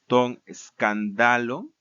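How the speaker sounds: "escándalo" recited as skan-DA-lon; stress shifted to penult. Shown as a demonstration. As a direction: land hard on DA in "escándalo". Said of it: "en el genitivo y dativo".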